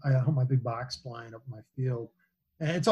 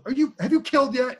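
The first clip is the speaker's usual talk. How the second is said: mock wife voice, pitched much higher; a lightly voiced impatient wife, pitched up; imitating wife; 11 semitones higher, 3 dB louder than usual. Hunter mimics wife checking whether he killed yet, pitched high. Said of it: "she goes".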